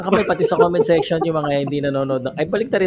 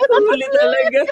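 laughing. Real, not acted. Still laughing after caught answer.

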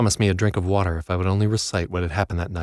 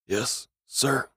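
meek prisoner reply; 5 semitones higher, 5 dB quieter than usual. A narrator's reading. Prisoner answering guard.

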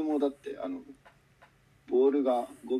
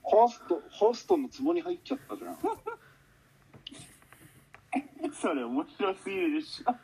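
laughing fit; 6 semitones higher than usual. Real, not acted. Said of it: "もうダメ".

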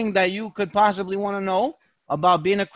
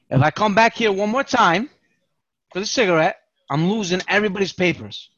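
louder, laying down the law to the cell; guard's loud threat; 2 semitones higher, 4 dB louder than usual. Retold or imitated. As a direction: bark the warning at the inmates.

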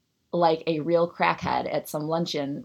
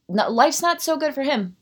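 sarcastic; 8 semitones higher, 5 dB louder than usual. Real, not acted. Sarcastic comeback.

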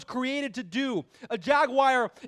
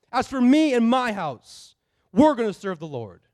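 declared vow; 5 dB louder than usual. Acted. Final vow, loud.

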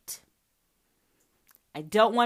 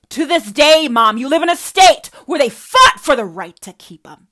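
loud angry tirade; furious; 4 semitones higher, 13 dB louder than usual. Real, not acted. Daughter lectures her mother about her state, loud and furious. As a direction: drive every word home.

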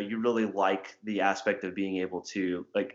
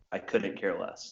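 correct phrase slowly; 3 semitones lower, 5 dB quieter, slower than usual. Shown as a demonstration. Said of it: "what you're meaning to say is".

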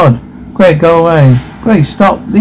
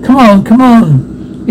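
desperate urging; 6 semitones higher, slower than usual. Acted. Urging friend in panic.

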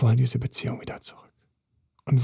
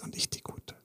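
whisper; 18 dB quieter than usual. Pretend. Imagined client plea, hushed.

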